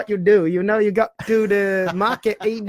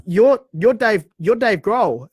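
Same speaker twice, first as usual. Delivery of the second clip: stammering, excited and higher; starstruck stammer; 5 semitones higher, 5 dB louder, slower than usual. Retold or imitated. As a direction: stumble over the name, starstruck. Starstruck fan stammering at star.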